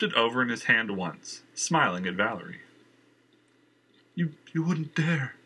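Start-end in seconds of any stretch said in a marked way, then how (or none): 4.1-5.3 higher, stammering whimper. Acted. Valerie whimpers at the knife-wielding man. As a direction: beg without conviction. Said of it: "she whimpered".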